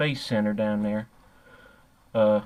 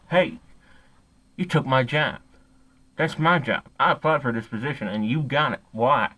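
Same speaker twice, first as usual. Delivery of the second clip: loud, indignant accusation; retold job-theft confrontation, pushed loud; angry confrontation; 4 dB louder than usual. Confronting the man who took his job, angrily.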